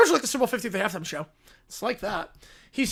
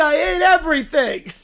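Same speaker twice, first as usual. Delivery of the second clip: put-on whiny kid yelling he hates everything; bratty meltdown yell; 3 semitones higher, 4 dB louder than usual. A toddler throwing a tantrum over everything, whiny yell.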